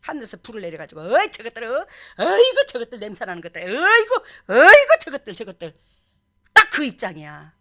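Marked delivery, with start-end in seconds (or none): 1.0-5.8 finger-pointing contempt. Acted. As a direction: recoil from them in mock disgust. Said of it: "맨날 손가락질했거든". (과장되게 혀를 차듯 경멸하는 말투)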